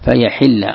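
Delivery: short i after the ح in "فيحل"; kasra on ḥā’. Shown as a demonstration. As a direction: pronounce "فيحل" fa-yaḥilla. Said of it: "كسر الحاء". ("فيحل" بكسر الحاء)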